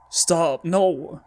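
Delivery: sudden high frightened stop; begging the game to stop, voice jumping up; scared plea. Real, not acted. Player pleading with the horror game, frightened.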